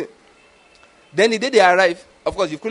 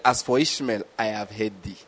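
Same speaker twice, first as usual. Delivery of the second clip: soft divine voice; 8 semitones lower, 6 dB quieter than usual. Acted. God's reply, voiced softly.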